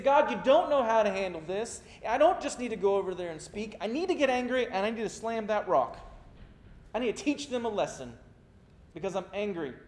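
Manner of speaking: angry Moses. Retold or imitated. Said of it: "his personal anger".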